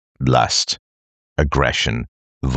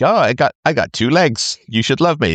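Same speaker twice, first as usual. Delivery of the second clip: whiny voice; 7 semitones higher than usual. Retold or imitated. Mocking someone demanding love.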